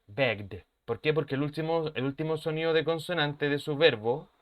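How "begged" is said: "begged" as begd, in one syllable. Shown as a demonstration. Teacher demonstrates the rule, "begged" with -ed as D. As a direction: end "begged" on a voiced D, silent second E. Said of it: "Este se va a pronunciar con la D".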